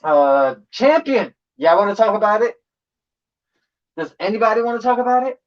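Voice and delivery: loud challenging callout; hype callout. Real, not acted. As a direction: call them out loudly. Calling out named crews.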